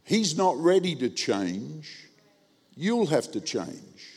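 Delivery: slow, measured pronouncement; unhurried, understated divine voice; lightly voiced God. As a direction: deliver a calm, slow word from God. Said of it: "God spoke to me and said".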